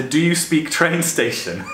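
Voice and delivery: slow, amused read through laughter; tickled by the absurd question; laughing. Real, not acted. Reading out a language blunder to viewers, laughing.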